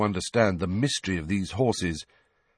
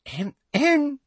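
higher prim throat-clearing; fake cough. A narrator's reading. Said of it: "Umbridge's fake cough".

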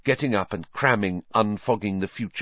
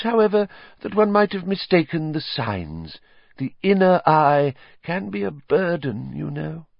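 dewy smile; 8 semitones higher than usual. Acted. Trelawney accepting praise, dewy high voice. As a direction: smile through a sigh of false modesty.

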